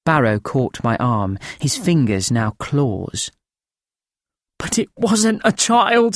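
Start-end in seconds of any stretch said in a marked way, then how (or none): 4.6-6.1 higher, thin rasping voice of a haunted man; thin rasping old voice. A narrator's reading. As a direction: rasp it out thin and frightened, pitched up. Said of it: "His voice a thin, rasping trickle".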